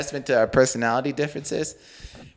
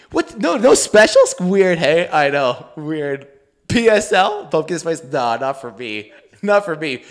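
lightly voiced chatty goofball, mocking; mocking zany chatter; slower than usual. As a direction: play the friend as a rambling zany guy. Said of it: "You know, like, zany guy".

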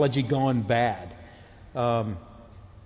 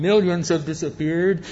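radio announcer; 3 semitones higher than usual. Retold or imitated. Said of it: "this voice comes on".

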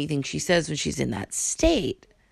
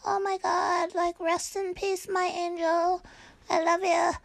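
higher, sugary fake grief; mock sentimental mourner, higher pitch; mock gushing mourner; 11 semitones higher than usual. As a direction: parody a gushing condolence post. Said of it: "they're like".

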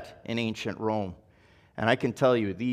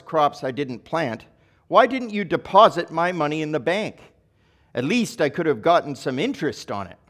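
mild stern rebuke; 3 semitones higher, 4 dB louder than usual. Acted. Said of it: "the king roared".

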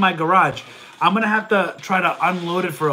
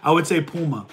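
stuffed-up nasal voice; stuffy nose; 2 semitones lower than usual. Real, not acted. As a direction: talk through a blocked nose. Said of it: "my nose is very stuffy".

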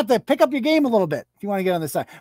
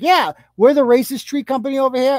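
higher, brightly boasting tree-company guy; mock cheerful racist; 4 semitones higher than usual. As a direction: proudly announce being racist, pitched up. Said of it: "They're like".

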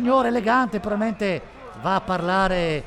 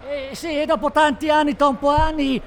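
loud and high, carried away by the win; excited shouting; 6 semitones higher, 3 dB louder than usual. Acted. Excited shouting about the team's win. (grida entusiasta)

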